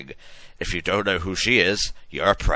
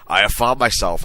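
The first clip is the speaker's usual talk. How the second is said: hammy stage actor; 2 semitones higher, 5 dB louder than usual. Acted. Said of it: "Hagrid yelled".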